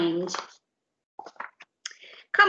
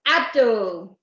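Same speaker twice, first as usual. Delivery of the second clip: bellowed; 4 dB louder than usual. Acted. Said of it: "bellowed Doris".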